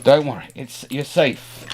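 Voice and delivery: ordinary talk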